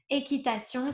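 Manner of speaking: équitation with nasal sion ending; French équitation. Shown as a demonstration. Teacher models équitation for learners. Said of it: "the sound is sion".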